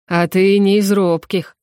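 slow, booming fire demon. Acted. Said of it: "Гулом разнёсся голос демона".

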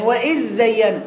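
وإذ زين with the dhal turned into a doubled zay; stubborn merged error. Retold or imitated. Imitating the student still failing, dhal merged. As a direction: slide from وإذ into a long zz on زين. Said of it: "هو إيه؟".

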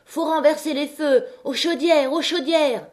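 high, urgent rallying yell; howling. A narrator's reading. La Brûlée urging the women to the boilers, howling. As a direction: howl it out to rouse the mob. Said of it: "en hurlant toujours".

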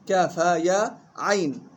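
slow recitation of the letters; tajweed recitation demo. Shown as a demonstration. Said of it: "فيه وجهان".

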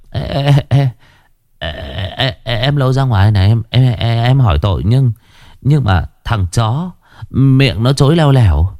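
a flustered thug tripping over his words to the boss; stammering henchman. Acted.

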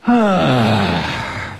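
long, audible falling sigh; big warm-up exhale. Shown as a demonstration. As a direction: let the breath fall out on "hah". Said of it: "One more time".

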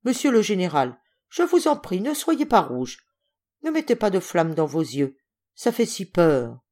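lightly voiced small boy begging; timid, mild supplication; pleading child. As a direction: plead earnestly, lifting the pitch on the entreaty. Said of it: "lui dit en joignant les mains".

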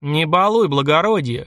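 a short, firm warning bark; gruff bark. Acted. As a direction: snap back at the officer. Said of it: "рявкнул парень". (рявкнул парень на офицера)

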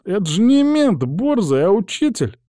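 high-pitched pleading whine; plaintive, high-voiced lad; whining. A narrator's reading. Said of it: "захныкал тот".

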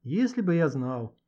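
slow, mildly lost; a touch of bewilderment, slowly; bewildered. Acted. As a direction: say it helplessly, drawn out. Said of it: "растерянно произнёс Гошка".

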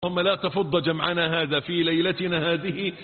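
steady, measured prayer cadence; supplication. Acted. Preacher leading the congregation in prayer, measured. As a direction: pray over the people in a steady chant.

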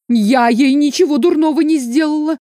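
high-pitched self-justification; defensive protest. A narrator's reading. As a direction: protest your innocence at once. Accused woman hurriedly defends herself.

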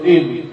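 "إيم" with a glottal onset in place of q; qaf dropped. Retold or imitated. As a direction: imitate the faulty ending "إيم" without any qaf. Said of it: "إيم بدل القاف".

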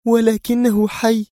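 high, slow, resolute woman's voice; firmly. A narrator's reading. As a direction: plant it slowly, no doubt allowed. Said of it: "أجابته في حزم".

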